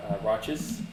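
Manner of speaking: whispering. Acted. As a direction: murmur it into his ear. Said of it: "I'm gonna whisper into his ear".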